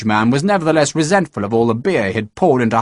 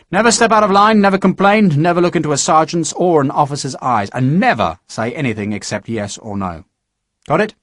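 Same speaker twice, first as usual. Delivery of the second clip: stern sergeant; 3 semitones higher than usual. Acted. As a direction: bark the rules at a recruit. Sergeant barking rules at recruit.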